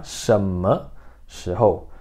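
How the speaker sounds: "Shema shihou" said slowly, syllable by syllable; teacher slowing down the Mandarin word; slow model pronunciation. Shown as a demonstration. Teacher modelling the word for students, slow and careful. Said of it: "Que é shema shihou".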